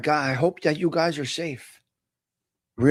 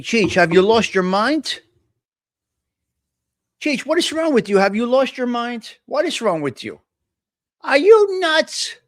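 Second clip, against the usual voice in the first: higher, exasperated telling-off; mock scolding; 5 semitones higher, 3 dB louder than usual. Real, not acted. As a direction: scold the friend as if he's lost it. Scolding Cheech on the shelf.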